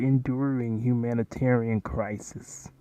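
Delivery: enduring humanitarian crisis said slowly and softly, every syllable careful; slow, hushed echo of enduring humanitarian crisis; imitating the reporter. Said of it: "look at how they say that word".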